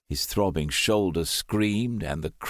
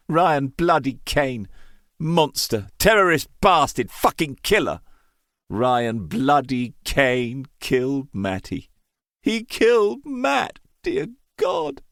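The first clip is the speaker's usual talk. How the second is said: rising anguished rage, louder and higher; furious outburst; 6 semitones higher, 4 dB louder than usual. A narrator's reading. Grieving brother rages at his brother's killer, furious. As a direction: spit out the killer's name in grief.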